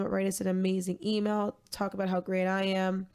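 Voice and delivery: flat deadpan monotone voice. Pretend. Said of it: "With my monotone voice".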